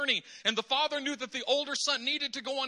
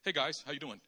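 friendly greeting; 7 semitones lower than usual. Retold or imitated. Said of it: "what do they say".

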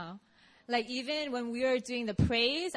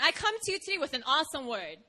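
faster, amused second take; quick rewound retake; 3 semitones higher, faster than usual. Shown as a demonstration. Speaker rewinds her opening line for the audience, quick amused retake. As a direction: rattle it off again with a laugh. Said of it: "Okay, re-, rewind".

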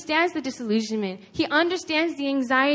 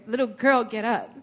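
brisk order at normal volume; acted, matter-of-fact order; mock command. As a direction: issue it as a plain command. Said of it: "he doesn't just command her".

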